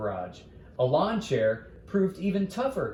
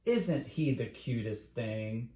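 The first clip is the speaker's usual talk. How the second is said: dreamy sigh; 2 semitones lower, 5 dB quieter than usual. Acted. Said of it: "sighed and said".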